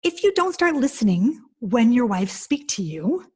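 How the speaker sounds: slow, measured ultimatum; stern warning. Retold or imitated. Speaker to husbands at her talk, slow stern warning. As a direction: spell it out slowly as a warning.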